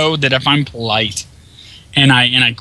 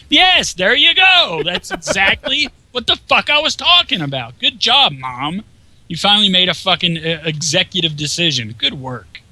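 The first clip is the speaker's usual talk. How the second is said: much higher, mocking sing-song praise with a laugh; sarcastic praise; 7 semitones higher than usual. Gamer mocking the mother for finally banning her son, high sarcastic praise. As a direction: sneer "Good job, Mom" in a high, fake-cheerful voice.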